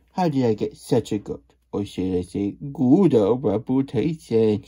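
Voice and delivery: loud, bragging showman voice; boastful cheese character. Acted. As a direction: brag to the crowd. Punning cheese character line.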